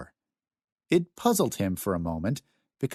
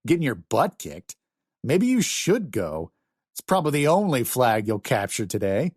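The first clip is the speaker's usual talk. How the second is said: mocking; 3 semitones higher than usual. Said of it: "Michael mocked".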